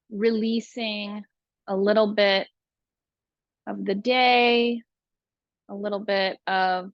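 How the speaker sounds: calm, unhurried breathing guide; spacious meditation delivery, phrase by phrase; guided meditation. Real, not acted.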